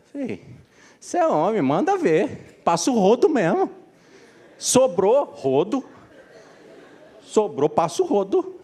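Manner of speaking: high-pitched mock mother urging her son; egging-on mother. Mother egging on her son, high-pitched goading. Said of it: "ela en-, coloca no filho o quê?".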